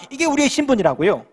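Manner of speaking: ordinary delivery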